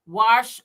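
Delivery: Wash said as "warsh"; dialect wash. Retold or imitated. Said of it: "I don't say".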